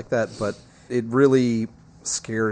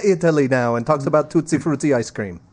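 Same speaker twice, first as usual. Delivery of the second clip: mock Italian accent; 3 semitones higher than usual. Mocks pope as stereotype Italian.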